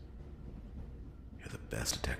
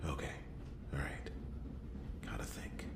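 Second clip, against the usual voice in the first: hushed muttered thought; whispered to self; 5 dB quieter than usual. Acted. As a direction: whisper it to yourself.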